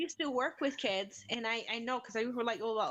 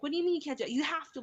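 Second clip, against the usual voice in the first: insistent, higher-pitched mock reprimand; retold teacher scolding; 5 semitones higher, 3 dB louder, much faster than usual. Teacher answers a refusing pupil, impatiently insistent. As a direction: push back like an impatient teacher.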